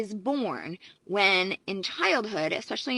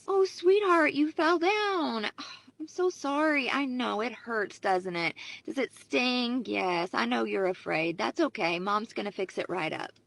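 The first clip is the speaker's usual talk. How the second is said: attuned mother; 3 semitones higher than usual. Retold or imitated. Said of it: "An emotionally attuned mother would act like this".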